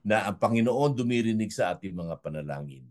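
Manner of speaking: slowing program-host outro over music; host closing the program for listeners, sign-off voice; radio sign-off. Acted. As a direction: close the show gently like a broadcast host. Host's closing words over music.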